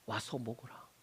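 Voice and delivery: low and very soft; gentle quiet invitation. Acted. Jesus calling the disciple who denied him, softly.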